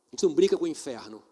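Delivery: rising preacher intensity; forceful preaching. Real, not acted. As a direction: drive the warning home. Preacher building to climax.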